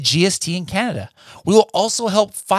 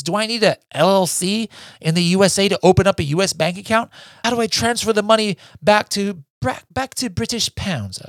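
higher, hammed-up British accent asking questions; mock British accent; 5 semitones higher than usual. Host imitates a UK seller's questions, mock British accent. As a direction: play a fretting UK seller in a put-on British accent. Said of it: "I'm sorry for that accent".

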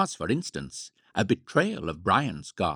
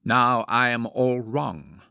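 slow, louder mock-confident declaration; mock conviction; 3 semitones higher, 5 dB louder, slower than usual. A narrator's reading. Man imagining himself after powdering, mock conviction. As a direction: announce it grandly with full conviction. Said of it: "with equal conviction".

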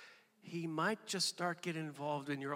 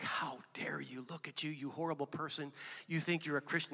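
harsh, much softer half-whispered scolding; accusing tone; 6 dB quieter than usual. Retold or imitated. The accuser condemning a believer, cold harsh whisper. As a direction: hiss condemnation at a sinner. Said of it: "No, no, that's not his tone".

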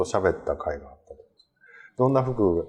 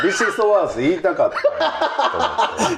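laughing; 10 semitones higher than usual. Real, not acted. Still laughing at the answer.

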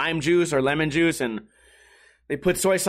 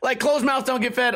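mock-parrot the saying, pitched higher; mocking repeat; 5 semitones higher than usual. The streamer mocks the waitress's proverb in a high sneer. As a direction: sneer the proverb back at her.

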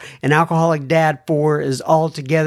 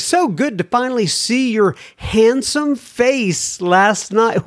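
lilting, higher mock-London voice; dodgy London accent; 4 semitones higher than usual. Host reading a UK listener's letter, dodgy London accent. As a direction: read it in a put-on London accent. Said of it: "my dodgy London accent".

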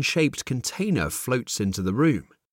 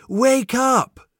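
higher and louder second call to wake him; 10 semitones higher, 5 dB louder than usual. Acted. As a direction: call again, more urgently. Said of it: "he hears softly".

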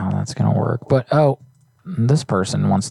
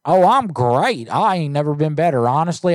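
mock cheerful; 5 semitones higher than usual. Prank caller plays head-injured man.

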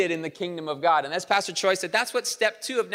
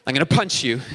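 mock exasperation; 2 semitones lower, 4 dB louder than usual. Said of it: "You're like".

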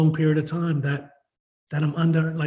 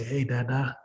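low, soft hello to a parent; hushed, tender rehearsed greeting; greeting dad; 3 semitones lower, 7 dB quieter, slower than usual. Pretend. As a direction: say it gently and low, as if face to face. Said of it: "when I see my dad in person, I'll say".

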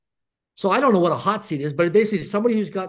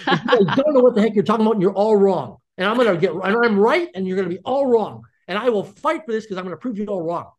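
defiant grudging surrender. Retold or imitated.

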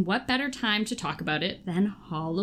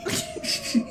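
spooky story narration. Acted. Reads a scary story to friends.

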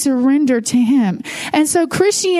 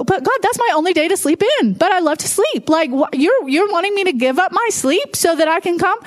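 higher-pitched complaint to God; mock protest; 4 semitones higher than usual. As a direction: plead your case like a reluctant churchgoer. Acting out a reluctant believer's protest.

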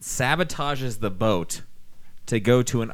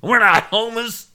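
higher, louder, slow gruff Skipper; Skipper quote; 10 semitones higher, 6 dB louder, slower than usual. Retold or imitated. The Skipper protesting to Gilligan, slow, high and gruff. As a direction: drag it out as the offended Skipper. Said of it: "We're like".

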